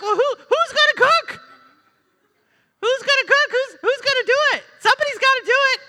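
a high, loud, fast frantic housewife; hammed-up panic over who will cook; fussing Martha. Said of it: "You're like".

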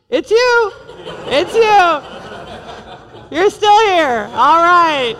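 flat, let-down "it's you" with a laugh; deflated morning greeting to spouse; unimpressed sigh. Pretend. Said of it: "you're like".

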